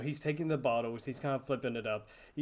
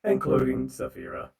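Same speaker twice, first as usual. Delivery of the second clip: loud robot bartender; 8 dB louder than usual. Acted. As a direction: mechanical listing voice. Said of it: "the robot voice".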